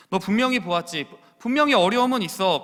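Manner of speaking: Paul insisting to Timothy, loud and high; emphatic Paul. Acted. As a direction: punch 분명히 like a preacher's cry. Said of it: "사랑하는 아들 디모데야".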